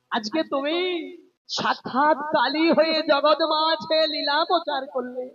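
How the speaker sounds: mildly tearful, awed plea; acted devotional lament. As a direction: plead with your beloved lord, a touch of weeping. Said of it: "কেঁদে কেঁদে বলে".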